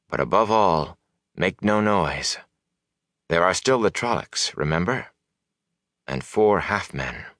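a hint of a wise woman giving urgent orders; understated grave warning in measured phrases; lightly voiced commanding sorceress. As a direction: instruct them firmly, lightly in character. Voices Moiraine giving instructions.

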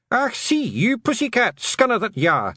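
high-pitched Scots yell. Acted. Little man grabbing the cat by the ears, high yelling. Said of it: "he yelled".

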